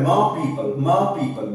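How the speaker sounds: ম পিপল with a long open অ, no r; British pron demo. Shown as a demonstration. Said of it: "এটা ব্রিটিশরা উচ্চারণ করে".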